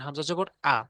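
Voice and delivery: হামজা জবর spelled out, ending on an open "aa" for আ; pronunciation demo. Shown as a demonstration. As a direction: show আ as an "aa" vowel. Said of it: "উচ্চারণ আকার হয়েছে".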